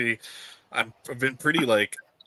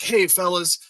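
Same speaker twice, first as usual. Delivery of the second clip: higher, slowed, hammed-up drunk rallying call; mock drunk singalong call; 8 semitones higher, 4 dB louder than usual. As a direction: play the hammered buddy begging everyone to sing. Drunk guy rallying friends to sing.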